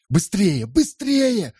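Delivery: very high frantic shouting. A narrator's reading. Andrea at the window: very high frantic shout. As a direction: scream at them to hurry. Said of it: "крикнул Андреа".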